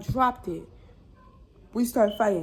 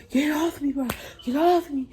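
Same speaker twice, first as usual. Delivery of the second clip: loud, higher, strained protest; exasperated demand; 4 semitones higher, 6 dB louder than usual. Retold or imitated. Pinned in the fight, telling her to get off, exasperated and loud. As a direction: shove the words out loudly.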